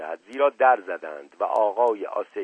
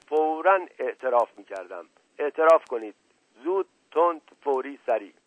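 shouting; 2 semitones higher than usual. Acted. The inspector shouting at Asadollah to confess at once. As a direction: demand the confession, pushing harder. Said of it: "فریاد زد".

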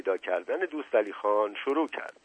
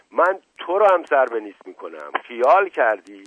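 raised, indignant threatening voice; angry threat; 5 dB louder than usual. Acted. Wife threatens the deputy she's clawing, angry. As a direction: threaten him as you lunge.

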